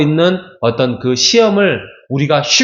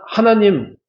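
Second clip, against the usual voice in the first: complaining to God. Retold or imitated. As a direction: whine at God like he's been wronged. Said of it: "막 그러면서 불평을 엄청 쏟아내요". (하나님께 불평을 쏟아내듯)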